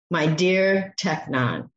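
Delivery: slow, fond my dear Teknon; slow loving name; tender endearment. Shown as a demonstration. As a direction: call him lovingly. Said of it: "term of endearment".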